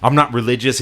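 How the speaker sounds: lightly acted freak-out; retold freak-out. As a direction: imitate a flustered friend objecting. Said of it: "he's, like, freaking out".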